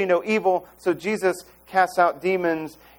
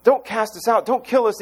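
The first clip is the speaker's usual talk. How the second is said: louder, whiny begging; mock-grovel like a cornered demon; a light hint of terrified demons pleading; 6 semitones higher, 4 dB louder than usual. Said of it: "When demons come and say".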